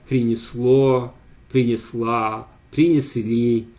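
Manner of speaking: принесло, принесла, принесли with stress on the final syllable; Russian stress examples. Shown as a demonstration. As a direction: read принесло, принесла, принесли as drill words. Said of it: "N stress".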